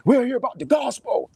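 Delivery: mock earnest preacher. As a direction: play the hypocrite proudly announcing the gospel. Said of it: "And I'm like".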